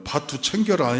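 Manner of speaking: lightly put-on Gangwon dialect; a hint of Gangwon accent. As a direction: imitate a Gangwon speaker, pitch a touch lifted. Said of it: "강원도 말로 말하면".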